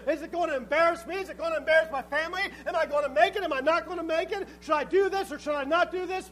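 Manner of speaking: exaggerated worrier; mock fretting indecision. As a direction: fret through a string of questions, hammed up. Mocks fretful indecision before God.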